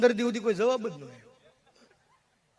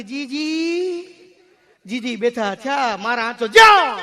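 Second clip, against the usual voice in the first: slow drawn-out call, ending loud; Hakabha Gadhvi impression; 4 semitones higher, 6 dB louder, much slower than usual. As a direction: stretch the words slowly, then burst out. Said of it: "સૌથી પહેલો અવાજ હકાભા ગઢવી".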